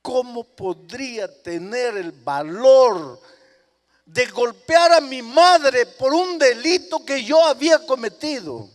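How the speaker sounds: high, loud and slow lament; anguished son unable to strike; anguished cry. Acted. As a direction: plead with the whole heart. Son's anguished question.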